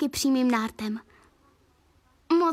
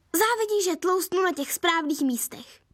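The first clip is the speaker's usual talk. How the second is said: smug teasing; 4 semitones higher than usual. Acted. Sister smug reply.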